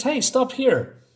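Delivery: high, drawn-out call to stop. Acted. Lupe flying, tells them to stop here, calling out high. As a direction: sing out a halt, stretched and high. Lupe calls out mid-flight.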